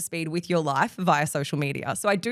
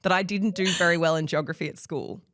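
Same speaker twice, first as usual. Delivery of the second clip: laughing. Real, not acted. Teasing admission about her geography.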